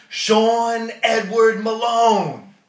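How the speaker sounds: loud, slow full-name yell. Retold or imitated. Angry dad yelling at his son on the phone. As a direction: bellow the son's full name, drawn out. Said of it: "he's yelling".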